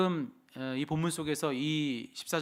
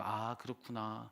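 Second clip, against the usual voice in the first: soft, slow "now I get it"; drawn-out, quiet realization; dawning understanding; 6 dB quieter, slower than usual. Retold or imitated. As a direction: act out a child slowly catching on. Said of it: "이해가 됐다는 듯이".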